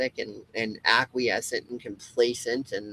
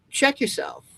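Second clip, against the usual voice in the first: much higher, punchy Check yourself; higher mock warning; sharp call-out; 14 semitones higher than usual. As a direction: bark Check yourself up high as a jolt. Calling out the listener.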